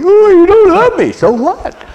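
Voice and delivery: very high, loud mock whine; self-pitying whine. Preacher mocking a self-pitying listener, whiny. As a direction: whine like a hurt child. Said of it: "thinking, "Poor me".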